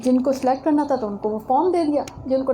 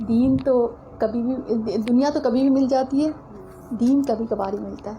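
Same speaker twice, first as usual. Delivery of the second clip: calm advice. Retold or imitated. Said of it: "بڑے آرام سے کہا".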